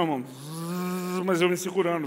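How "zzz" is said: hissing like a pressure cooker; a soft hiss of pent-up pressure. Retold or imitated. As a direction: let out steam through the teeth. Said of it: "Pensa a panela de pressão".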